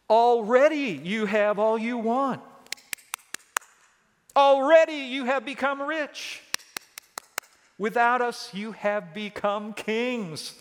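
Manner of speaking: loud, high mock amazement at their success; sarcastic congratulations, pitched high; ironic, near sarcastic. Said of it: "speaking ironically, bordering on sarcastically".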